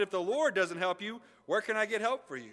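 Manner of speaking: mildly hammed-up desperation; desperate king. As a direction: plead like a king out of options. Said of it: "desperation in the king's voice".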